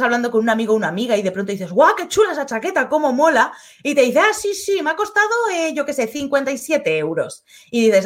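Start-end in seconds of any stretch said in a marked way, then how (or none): 1.7-3.5 excited compliment. Retold or imitated. Complimenting a friend's jacket. 4.2-7.4 casual friend voice. Retold or imitated. Friend answers about the price.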